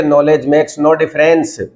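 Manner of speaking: slow and easy, no rush; calm slow repeat. Shown as a demonstration. Teacher shows students to say it calmly, slow. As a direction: say it calmly, word by word. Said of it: "अरे आराम से बोलिए".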